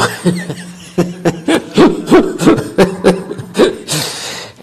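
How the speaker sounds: real loud laugh breaking out; long laugh. Real, not acted. Laughing at the neighbors being invited to the temple, long loud laugh. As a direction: laughs hard at the irony. Laughing while telling the story.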